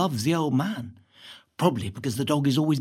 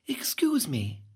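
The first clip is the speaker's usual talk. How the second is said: snotty; 3 semitones higher, 3 dB quieter than usual. Acted. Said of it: "Emma, all snotty, says".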